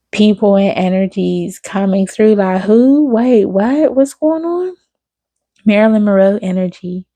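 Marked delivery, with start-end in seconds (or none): 2.6-4.8 sudden high-pitched bewildered question; real surprise. Real, not acted. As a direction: jump way up in pitch, caught off guard. Bewildered by spirits coming through.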